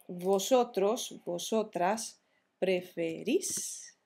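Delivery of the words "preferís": preferís, slowly spaced with a long stressed "rís"; slow "preferís", stressed on the last syllable. Shown as a demonstration. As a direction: stretch the final I in "preferís". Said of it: "Con acento en la I".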